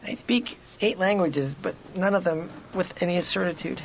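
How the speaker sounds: measured, deliberate boast that deflates; halting academic. Pretend. Co-host taking over the academic parody, slowed mock-scholar voice.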